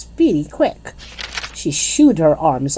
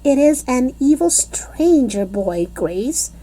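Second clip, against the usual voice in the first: shouted back; 8 semitones higher than usual. A narrator's reading. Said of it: "I shouted back".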